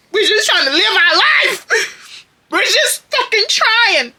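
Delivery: high, loud and slow, laughing through tears; laugh-crying. Real, not acted. Telling viewers about crying over a girl in Publix, laugh-crying. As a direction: wail it out half laughing.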